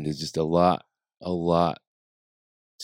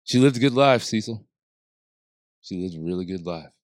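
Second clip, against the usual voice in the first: calming voice. Retold or imitated. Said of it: "does that calming voice of his".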